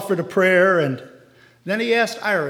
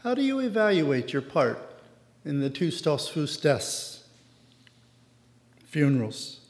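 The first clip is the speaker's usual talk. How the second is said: soft, gentle question; gently; 3 semitones lower, 4 dB quieter than usual. A narrator's reading. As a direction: ask it gently, leaning in. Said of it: "leaned forward and said gently".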